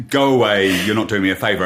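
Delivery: a hint of loud brusque dismissal; mock surly stylist. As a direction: play a rude stylist lightly. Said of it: "That angry sort of accent".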